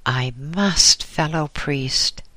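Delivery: put-on understated urgent young monk; mild exclamation. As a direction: insist gently but firmly. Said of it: "exclaimed the young monk".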